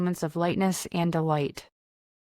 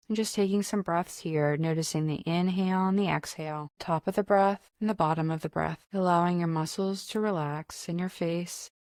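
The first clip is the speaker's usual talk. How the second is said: loving kindness reflection. Acted. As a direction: lead them gently through the breathing and the blessings. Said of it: "I'm gonna end with a loving kindness reflection".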